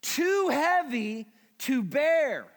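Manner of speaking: slow, heavy lament; slow anguished reading. Retold or imitated. Pastor voicing King David's psalm, slow and heavy. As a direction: carry the weight of guilt. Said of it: "He said".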